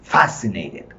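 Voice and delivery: "fascinated" with a firm FAS; stress on first syllable. Shown as a demonstration. Teacher confirming the stressed syllable, FAS strong in "fascinated".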